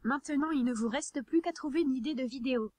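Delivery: even, machine-read text to speech narration; synthetic text to speech voice. Real, not acted. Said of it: "comme je le fais actuellement".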